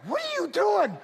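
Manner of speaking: a laughing what-are-you-doing; amazed wife. Retold or imitated. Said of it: "my wife's like".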